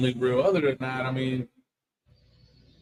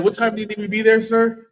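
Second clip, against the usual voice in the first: eager laughing reply; 5 semitones higher, 5 dB louder than usual. Retold or imitated. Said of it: "I said".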